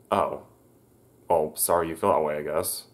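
retelling a dismissive sorry, lightly voiced; a hint of a sarcastic shrug; with attitude. Boyfriend brushes off the refusal, with mild attitude. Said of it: "he says it with kind of an attitude".

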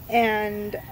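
normal talking voice

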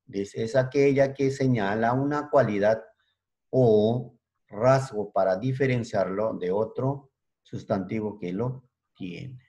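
slow, clear dictation of the definition; slow dictated repeat. Shown as a demonstration. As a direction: repeat it slowly for note-taking. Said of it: "dictation repeated". (repitiendo la definición despacio)

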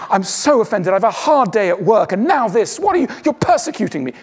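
a hint of a wounded, put-upon parent; mock offended parent. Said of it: "You don't go".

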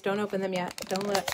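usual speaking voice

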